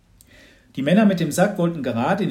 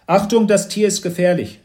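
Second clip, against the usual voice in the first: loud, higher-pitched snarled warning; rasped warning; 8 semitones higher, 8 dB louder than usual. A narrator's reading. Expert warning officers about the animal, loud rasp. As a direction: rasp out the alarm. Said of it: "schnarrte Herr Schrepp".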